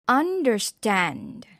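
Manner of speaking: slow, syllable-by-syllable "understand"; stressed syllable. Shown as a demonstration. Teacher showing word stress, slow stressed "understand". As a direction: draw out "understand" to show where its stress sits. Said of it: "stress is placed on a certain syllable".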